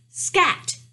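sharp, high, loud royal shout. A narrator's reading. King stamps at the mouse, shouting. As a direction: shout it as an angry king, pitch leaping. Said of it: "he shouted".

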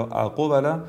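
full "u" vowel after ق, اقبل as "aqubala"; wrong qalqala. Shown as a demonstration. Tajweed teacher warns learners, saying اقبل wrongly as "aqubala". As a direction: overdo the bounce in اقبل into a damma on ق.

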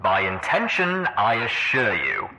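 slow, assured villain over loudspeakers; unhurried announcement through many speakers; Red Eye. A narrator's reading. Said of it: "Red Eye's voice floated out of a dozen speakers".

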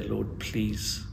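quiet, unhurried request to God; serious prayer. Acted. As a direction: pray it seriously, leaving room for a response. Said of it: "But seriously, to pause".

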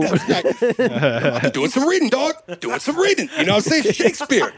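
animated rapper impression. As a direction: imitate a rapper proudly explaining. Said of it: "the only impression I can fucking do".

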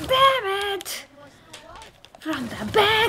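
yelling damn it at the game; furious shout. Real, not acted. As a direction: curse out loud at the screen. Killed from behind in game.

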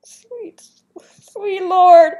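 breathless whispered exclamation; hushed whispered disbelief; awed whisper. Real, not acted. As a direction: whisper it, still stunned. Stunned after the correct guess.

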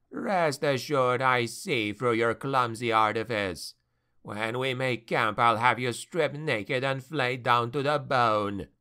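usual speaking voice

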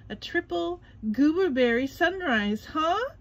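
lightly voiced curious sponge, rising huh; musing to himself; thinking. A narrator's reading. SpongeBob eyeing Patrick's sundae, a touch curious. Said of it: "SpongeBob thought".

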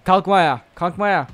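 high, loud frustrated yell; loud, high yell at the opponent; frustrated shout. Real, not acted. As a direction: yell it out, fed up.

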